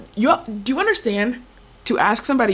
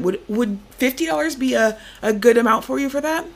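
lightly voiced, polite telemarketer; a fundraising caller working on a reluctant parent; role-played fundraiser. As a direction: stay sweet and keep pushing the pitch. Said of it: "Nice role play".

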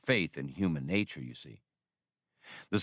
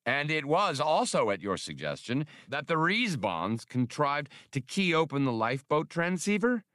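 fussy official voice; 7 semitones higher than usual. Acted. Spray questions Galandro.

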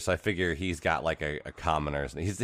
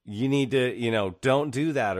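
lightly imitated concerned grown-up, higher and slower; pitched-up, drawn-out mock warning; chiding adult; 5 semitones higher, slower than usual. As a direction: scold a kid gently, mock-serious. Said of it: "there's even adults in there that are like".

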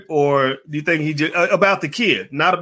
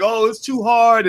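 mock whiny kid; 5 semitones higher, 3 dB louder, slower than usual. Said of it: "the ten-year-old's crying".

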